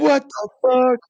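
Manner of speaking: high, loud, drawn-out disbelief; amazed. Real, not acted. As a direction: stretch it out in astonishment. Amazed by news of salt gun.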